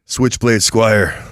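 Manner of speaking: lightly voiced wrestling heel; wrestling promo. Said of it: "Oh, let's cut a promo".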